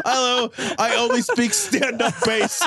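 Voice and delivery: slow, lightly mocking bass-voice singer. Mock deep-voiced singer.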